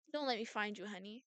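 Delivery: soft menace, dropping away at the end; quiet threat. Acted. Double warning honey not to be found, quietly threatening. Villain repeats the threat softly.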